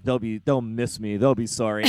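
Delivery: put-on lightly sulky kid's threat; mock childish grudge. Speaker recalling running away as a kid, mildly sulky. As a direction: grumble it like a runaway child. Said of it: "I would get mad about something".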